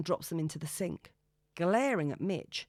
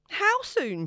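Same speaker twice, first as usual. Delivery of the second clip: high, loud panicked question; panicking as he backs away; 14 semitones higher, 7 dB louder than usual. A narrator's reading. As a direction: blurt it out in alarm. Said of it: "panicking now".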